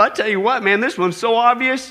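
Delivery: normal talking voice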